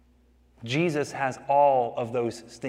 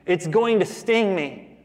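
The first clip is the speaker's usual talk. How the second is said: squeal of terror; 6 semitones higher, slower than usual. Retold or imitated. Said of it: "she squeals in terror".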